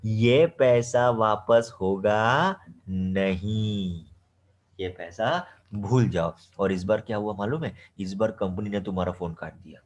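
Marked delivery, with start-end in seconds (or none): 0.1-6.4 loud, slow, final no; curt firm refusal. Retold or imitated. Company refusing Ajay's refund, loud and slow. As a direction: shut him down flatly, no refund. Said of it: "company बोलेगी".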